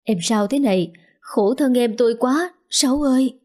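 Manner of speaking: lightly voiced weeping pity; older sister gently tearful over her sister. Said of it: "không cầm được nước mắt".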